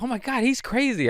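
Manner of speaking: very high, put-on voice; high mock-scandalised quote; imitated amused reaction. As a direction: mimic her reply way up high. Acts out celebrity's reply to him.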